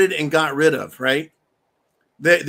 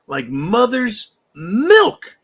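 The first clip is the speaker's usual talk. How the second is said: savoring quip; 4 semitones higher, 4 dB louder, much slower than usual. Real, not acted. After the shot.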